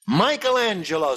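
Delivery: hammed-up Italian accent, Michelangelo style; mock Italian accent. Host as Michelangelo with a comic Italian accent. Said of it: "with your Jewish accent".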